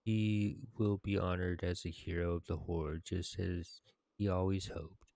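formal, measured tribute to a hero; quest text reading. Acted. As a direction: read out the honors like a story narrator. Reads quest completion text aloud.

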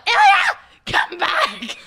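yelling a name. Retold or imitated. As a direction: call him back with a sharp yell. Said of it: "And then I hear David yell".

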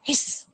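soft breathy hiss; snake hiss. Shown as a demonstration. Teacher shows the class how a snake hisses, softly. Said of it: "हिस अशा पद्धतीने".

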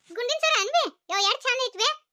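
high, delighted gushing; thrilled, pitch swooping up; excited admiration. Acted. Woman admires a new necklace, excited and high-pitched.

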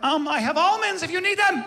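very high, timid little voice; awkwardly offering almonds in a crisis; meek offer. Retold or imitated. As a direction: offer it sheepishly.

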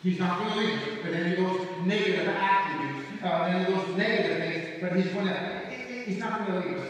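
emphatic preaching. Real, not acted. Preaches with raised force.

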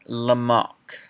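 very slow French-accented surname; drawn-out French pronunciation of the name. Shown as a demonstration. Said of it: "Sorry for my French accent".

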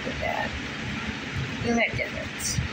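soft whisper. Real, not acted. Whispering to viewers over tiny seeds, hushed. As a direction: breathe it out in a hush.

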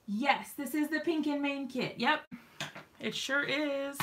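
winded after running the stairs; panting between words; out of breath. Real, not acted. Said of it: "I am, like, sadly out of breath".

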